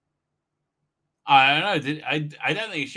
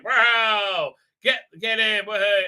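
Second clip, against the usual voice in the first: louder whooping cheer; mock cheering; 4 semitones higher, 4 dB louder, slower than usual. Cheering the lizard people on, mock excited cheer. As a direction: egg them on from the stands.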